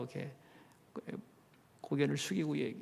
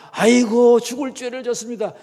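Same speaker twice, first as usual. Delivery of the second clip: loud, higher mock wailing confession; mock repentant wail; 7 semitones higher, 15 dB louder than usual. Preacher mocking the friends' demand that Job repent, wailing loudly. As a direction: ham up a groveling sinner's cry of aigo. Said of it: "이렇게 하지 않는다고".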